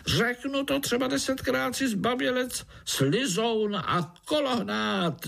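high squeaky fly yelling insults; a tiny fly bellowing insults; roaring fly. A narrator's reading. Fly groom insults Pája, high squeaky shout. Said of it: "zařval mušák".

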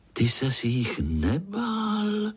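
high, curious little spider; eager young spider asking his uncle; small spider voice. A narrator's reading. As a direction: ask like an eager child. Little Pája interrupts.

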